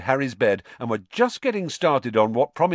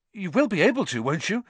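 desperate plea; 9 semitones higher, faster than usual. Acted. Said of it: "said Harry desperately".

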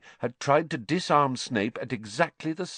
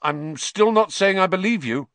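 loud, sharp retort; 9 semitones higher, 6 dB louder than usual. Acted. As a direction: snap back at him. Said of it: "Harry retorted".

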